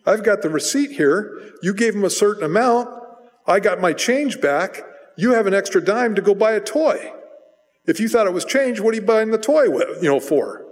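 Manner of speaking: a lightly voiced father grilling his son; scolding dad. Preacher voicing his dad catching him with the dime, stern. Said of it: "And he goes".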